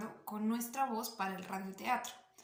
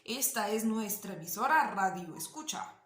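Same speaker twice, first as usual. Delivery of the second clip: low-toned radio announcer; 3 semitones lower than usual. Shown as a demonstration. Teacher imitating announcers welcoming radio listeners, low-toned voice. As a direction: imitate a radio host in a slightly lowered voice. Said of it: "un tono de voz un poco más bajo".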